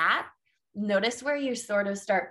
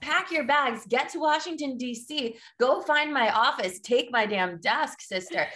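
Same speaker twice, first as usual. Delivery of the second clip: higher, sassy mock order, honey to sister; playful higher diva command to go take the job; sassy pep talk; 5 semitones higher than usual. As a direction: boss the listener around with playful diva sass.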